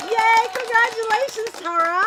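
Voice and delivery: very loud, high congratulations; celebratory cheer. Real, not acted. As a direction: whoop for the winner. Cheering the winner.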